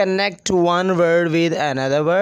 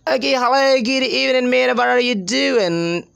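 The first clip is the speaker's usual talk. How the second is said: higher-pitched imitation British English; British native speaker; 5 semitones higher than usual. Shown as a demonstration. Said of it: "being a native English speaker".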